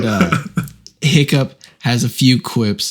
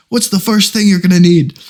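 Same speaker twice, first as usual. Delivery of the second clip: gruff teacher; 7 semitones higher, 5 dB louder than usual. Retold or imitated. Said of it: "But he goes".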